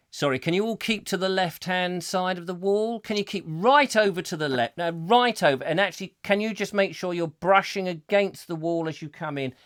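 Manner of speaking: hint of an officious steward; figure of authority. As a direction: give polite crowd instructions like someone in charge. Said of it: "a figure of authority".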